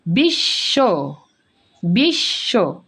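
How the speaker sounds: বিশ্ব as bish-sho, very slow, holding the sh; doubled consonant. Shown as a demonstration. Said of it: "সেই শব্দকেই দুইবার উচ্চারণ করতে হয়". (বিশ্ব, টেনে বিশ্-শো, শ দ্বিত্ব)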